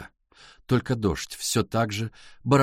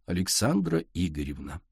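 sugary; 6 semitones lower, 4 dB quieter than usual. A narrator's reading. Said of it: "Адель слащаво улыбнулась".

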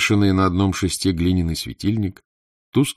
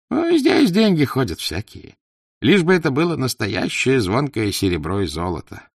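wheedling poor trader; 4 semitones higher than usual. Acted.

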